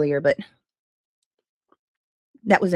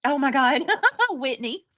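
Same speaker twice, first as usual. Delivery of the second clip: laughing out the words, higher; 4 semitones higher, slower than usual. Real, not acted. Streamer laughs reading Whitney's funny chat message, laughing. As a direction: breaks into real laughter at a viewer's comment.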